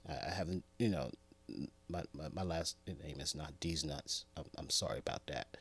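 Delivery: soft low mumbled aside; embarrassed. Real, not acted. Host correcting his name, soft embarrassed. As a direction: mutter the apology.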